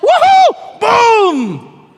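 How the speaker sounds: high, loud, jubilant cheer; gleeful whoop. Acted. Preacher cheering to the congregation, loud jubilant whoop. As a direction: whoop it up like a victory. Preacher exults over a compliment.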